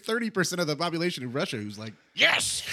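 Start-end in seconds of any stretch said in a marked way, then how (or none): 2.1-2.6 high-pitched cheering yes; coşkulu destekçi taklidi. Retold or imitated. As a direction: cheer it like a rabid fan. Voicing die-hard supporters cheering.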